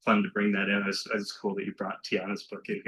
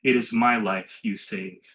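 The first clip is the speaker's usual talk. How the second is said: poetry reading; 3 dB louder, slower than usual. Acted. Closes the poem.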